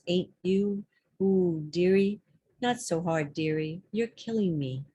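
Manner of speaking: conversational verse recital in short phrases; lightly acted poem voice, pausing between phrases; poem reading. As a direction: read it as one side of an intimate chat. Reads a dialogue poem aloud.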